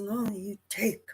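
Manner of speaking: high, mock-foreign broken English; imitating the shopkeeper's broken English. Storyteller mimicking the saleswoman's broken English back at her, high. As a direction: echo her pidgin back at her. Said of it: "I said".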